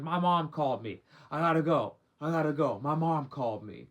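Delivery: loud, urgent mock excuse; retold freak-out. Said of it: "She starts freaking out".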